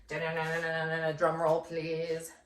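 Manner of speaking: playful drum roll, slowing down on please; mock drum roll. Teacher teasing her class with a drum roll. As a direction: build suspense like a game show. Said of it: "playful drum roll before the word".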